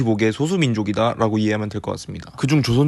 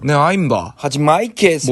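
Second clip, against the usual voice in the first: Joseonjok movie gangster impression; chinese accent korean; 3 semitones higher than usual. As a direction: Yanbian dialect, film-style. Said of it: "이런 성대모사나 패러디".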